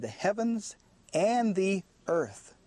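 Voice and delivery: slow, deliberate phrase landing on "earth"; emphasis on earth. Shown as a demonstration. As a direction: set "earth" apart with slow, weighty emphasis. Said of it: "there was an emphasis on the word earth".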